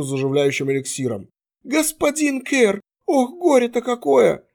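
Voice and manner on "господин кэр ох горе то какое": high wailing lament. A narrator's reading. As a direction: wail over the wounded man, much higher. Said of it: "Не причитай".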